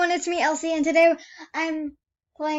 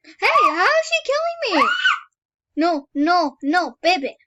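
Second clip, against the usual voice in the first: high, loud panicked yell; panicked shout; 6 semitones higher, 6 dB louder than usual. Real, not acted. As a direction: yell it in real alarm. Being killed in game.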